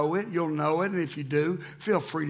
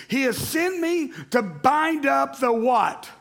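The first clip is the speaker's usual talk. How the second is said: loud prompting read; calling out to crowd; 8 semitones higher, 4 dB louder, slower than usual. Real, not acted. Pastor calling church to answer, loud. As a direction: make them finish the line. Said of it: "prompting congregation to fill in".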